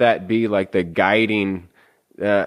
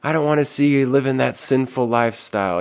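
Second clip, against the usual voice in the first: mock nice concern; 4 semitones higher than usual.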